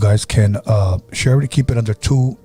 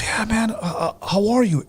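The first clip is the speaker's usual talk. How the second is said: acted cheerful reply; 11 semitones higher, 4 dB quieter, slower than usual. Acted cheerful phone call in dream.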